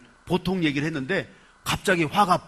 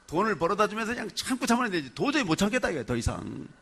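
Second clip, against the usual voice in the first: fast, mildly fed-up imitation; mock exasperation; 2 semitones higher, faster than usual. Preacher imitates a wife who has held back anger, mock exasperation. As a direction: rush it out like a spouse at the limit. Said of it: "확 화를 내면서 얘기해요".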